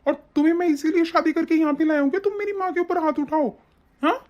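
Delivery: high, indignant scolding; angry confrontation. Acted. Husband accusing wife of hurting his mother, angry.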